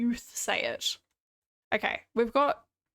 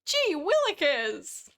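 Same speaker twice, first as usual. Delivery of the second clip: high, drawn-out imitation of mum; exaggerated mum voice, slow and high; mum's catchphrase; 5 semitones higher, much slower than usual. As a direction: stretch it out high, mocking mum's pet exclamation. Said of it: "my mum says gee willikers all the time".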